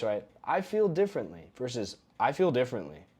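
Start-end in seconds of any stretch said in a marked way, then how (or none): 0.4-1.4 1 softer higher tone. Shown as a demonstration. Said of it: "The tone of voice".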